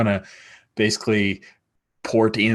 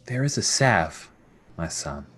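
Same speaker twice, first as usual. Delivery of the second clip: a hint of a queen, softer and lower at the ends; gently regal, trailing down softly; lightly voiced fairy queen mother; 3 semitones lower, 5 dB quieter than usual. Queen advising her scarred son, lightly regal and soft.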